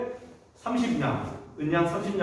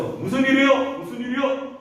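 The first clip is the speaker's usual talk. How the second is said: higher-pitched urgent questioning; alarmed people running over; 7 semitones higher than usual. Acted. Household rushing to the screaming wife, alarmed. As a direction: rush in asking what happened. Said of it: "막 쫓아왔겠죠".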